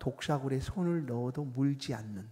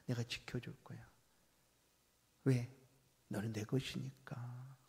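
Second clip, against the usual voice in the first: God's tender voice. Acted. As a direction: speak as a loving father to his child. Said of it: "이게 주의 목소리입니다".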